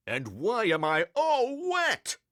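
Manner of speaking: high, indignant principal's outburst; angry demand. A narrator's reading. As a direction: demand it indignantly, pitch pushed up. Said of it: "he demanded".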